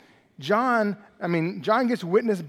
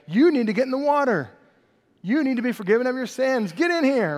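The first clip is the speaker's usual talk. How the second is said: higher, fast urgent preaching call; fire-and-brimstone preacher; 5 semitones higher than usual. Retold or imitated. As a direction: urge them into the water, fast and pressing. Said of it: "the fire and brimstone person".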